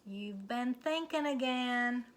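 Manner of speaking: teasing Minnie. Acted. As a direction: tease her friend about thinking. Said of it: "said Minnie".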